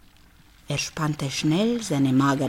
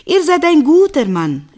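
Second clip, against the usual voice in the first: calls out gladly, louder and higher; calling back; 7 semitones higher, 6 dB louder than usual. Acted. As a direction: shout it happily back after him. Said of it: "rief sie zurück". (freudig laut zurückgerufen)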